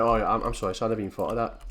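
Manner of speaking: mock the old man's meek reply. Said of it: "And he's like".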